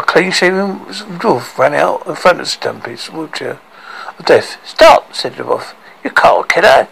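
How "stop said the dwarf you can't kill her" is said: high, loud cry to halt him; shouted stop. A narrator's reading. Clean-shaven dwarf yelling at Stumpy to spare the girl, high and loud. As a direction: yell to stop the axe, pitched up and loud.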